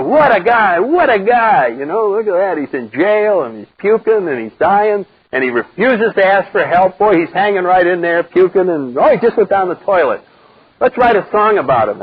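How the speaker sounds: the crowd marvelling at the loser; mock admiring crowd. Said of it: "everybody will go".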